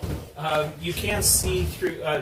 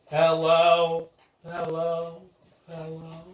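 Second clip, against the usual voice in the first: louder, fading chorus of eerie voices; overlapping graveyard whispers; 4 semitones higher, 7 dB louder, slower than usual. Acted. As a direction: hundreds of voices calling from below. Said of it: "you hear hundreds of voices".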